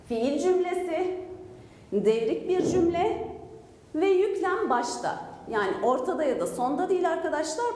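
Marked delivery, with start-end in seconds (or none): 0.1-1.2 slow, spaced-out teacher's repetition; measured dictation pace; deliberate recap. Real, not acted. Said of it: "Tekrarlıyorum". 1.9-3.3 slow repetition, left hanging on a rise; measured pace, more to come; deliberate recap. Real, not acted. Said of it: "Tekrarlıyorum". 4.0-5.2 slow, higher, emphatic repetition; measured teacher's reminder; deliberate recap. Real, not acted. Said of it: "Tekrarlıyorum".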